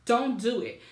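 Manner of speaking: retold indignant outburst; flipping out. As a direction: reenact telling grandma off, emphatic. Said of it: "So I flipped my lid".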